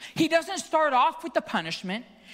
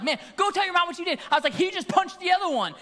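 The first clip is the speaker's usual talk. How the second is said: retold scolding; 6 semitones higher, faster than usual. Uncle ordering and accusing, retold.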